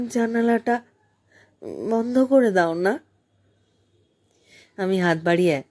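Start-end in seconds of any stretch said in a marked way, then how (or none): 0.1-3.0 a tired, worn-out girl asking, voiced higher; lightly voiced sick girl begging; tired weak voice. A narrator's reading. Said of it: "খুব ক্লান্ত অবসন্ন কণ্ঠে বলল".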